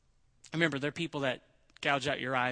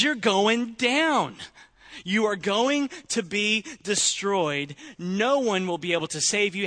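louder, higher mocking threat; loud threatening letter; 4 semitones higher, 7 dB louder than usual. Sennacherib's letter taunts Hezekiah, loud and gloating. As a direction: gloat over the doomed king. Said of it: "and says".

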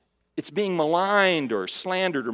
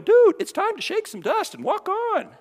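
mock dude voice, pitched way up; high surfer dude; 4 dB louder than usual. Preacher imitating himself telling Paul to leave, high dude voice. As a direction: toss it off like a laid-back dude, much higher. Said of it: "I'd be doing".

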